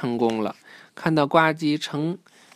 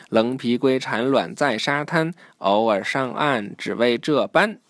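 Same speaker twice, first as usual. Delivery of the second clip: rhyme recital. A narrator's reading. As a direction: recite it line by line like a jingle.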